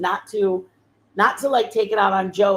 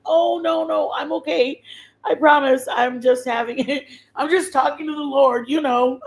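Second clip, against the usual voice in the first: high, flustered brush-off with a laugh; embarrassed reassurance; 5 semitones higher than usual. Retold or imitated. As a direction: wave her off, laughing it away. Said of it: "and I was like".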